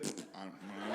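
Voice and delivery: low, quiet mock cop mumble; clueless shrug. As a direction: shrug it off under your breath. Imitating clueless cop's shrug.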